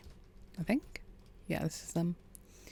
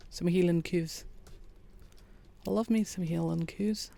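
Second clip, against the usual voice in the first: lightly put-on Scottish accent, "Hieland coos" said hee-land coos; a self-mocking stab at a Scottish accent on "Hieland coos"; a weak, playful Scottish accent rolling out "Hieland coos"; bad Scottish accent. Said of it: "My Scottish accent's awful".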